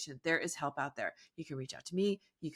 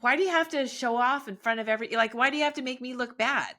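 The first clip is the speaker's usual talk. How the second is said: attitude; 6 semitones higher than usual. Retold or imitated. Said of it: "I would have had an attitude like".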